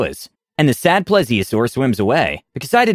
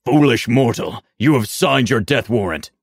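cold rasping evil emperor. Retold or imitated. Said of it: "The demon says".

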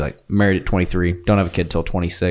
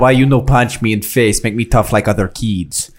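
mock Russian accent. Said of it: "in Russia, they're like".

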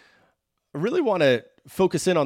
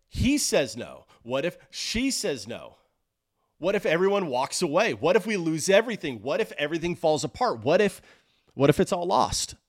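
higher, urgent string of anxious what-ifs; mounting worry; 4 semitones higher than usual. Acted. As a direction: pile up the fears, pitch lifted. Voicing a mounting list of fears.

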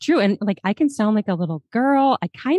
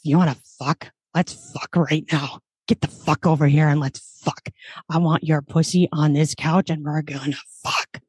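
a woman putting on a lower man's voice; masculine voice; 4 semitones lower than usual. Shown as a demonstration. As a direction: drop into a lowered male voice as a demo on request. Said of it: "I gotta hear the masculine voice".

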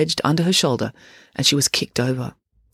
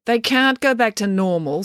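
sharp, higher snap; snapping; 6 semitones higher than usual. A narrator's reading. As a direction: snap it back at him. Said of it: "snapped April".

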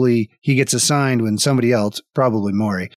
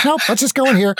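pitched up, deflated; high grumpy refusal; 10 semitones higher, faster than usual. Acted. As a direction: sigh it off in character. Ham Jam grumbling.

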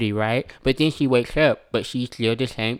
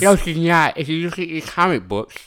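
nerdy know-it-all voice; smug nerd correcting someone; 6 semitones higher than usual. Acted. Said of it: "It's really creepy".

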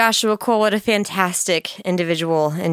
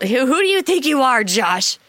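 mock indignant; 4 semitones higher than usual. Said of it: "what a hard "what".

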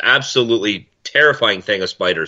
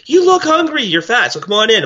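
much higher and louder, a hammed-up welcoming Italian host; 10 semitones higher, 3 dB louder than usual. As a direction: play the host who insists you come eat. Voicing Italian host at the door.

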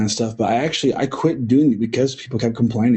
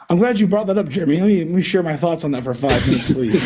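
laughing; 3 semitones higher, faster than usual. Real, not acted. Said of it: "conversation hijacker".

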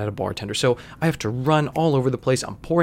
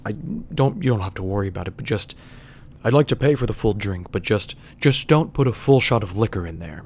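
lightly voiced baritone, somewhat lower; dignified radio voice; 3 semitones lower than usual. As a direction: attempt a measured, dignified announcer's baritone. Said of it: "do his, like, dignified radio voice".

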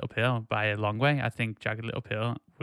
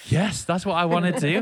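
emphatic, louder and higher yes; excited agreement; 6 semitones higher, 5 dB louder than usual. Retold or imitated. Podcast host recalls reaction to a friend's comment, excited agreement. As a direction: burst out in keen agreement. Acting out own delighted reaction.

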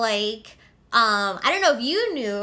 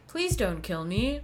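softer, slow, a hint of a flat Stepford wife; Stepford wife monotone; 6 dB quieter, slower than usual. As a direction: plead without any feeling, mildly mocked. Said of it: "Pleasantville Stepford Wife monotone voice".

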